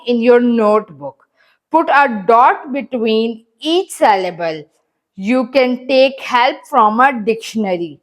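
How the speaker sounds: slow, deliberate reading aloud to pupils; measured classroom dictation; slow textbook reading. Acted. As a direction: read each word out slowly for the class. Teacher reads exercise instructions.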